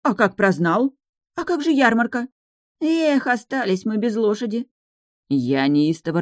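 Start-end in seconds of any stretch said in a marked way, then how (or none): 0.0-4.7 upset wailing. Acted. Women panic over news.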